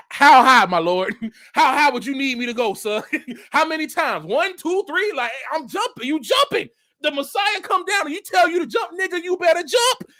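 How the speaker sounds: eager, half-shouted jumping answer; eager mock shout. Preacher to Facebook sister, half-shouting eager obedience. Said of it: "I'm like".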